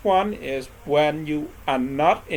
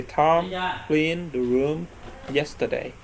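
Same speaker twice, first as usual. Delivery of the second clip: slow model sentence; slower than usual. Shown as a demonstration. Teacher giving students the example sentence, slow and deliberate. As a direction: spell the example out slowly, word by word. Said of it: "For example, say".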